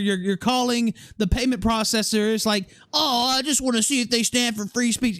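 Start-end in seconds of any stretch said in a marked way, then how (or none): 2.9-5.2 sarcastic mimicry. Mocking the caller's excuse.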